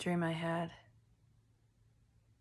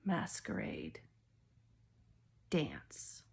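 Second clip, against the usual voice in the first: psychic whisper; 10 semitones lower, 4 dB quieter, much slower than usual. Acted. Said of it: "just got a download".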